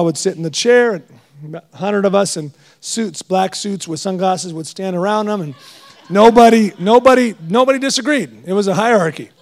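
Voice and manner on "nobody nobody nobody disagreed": NOBODY hit loud and high, three times; emphatic repetition. Acted. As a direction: pound the word nobody each time.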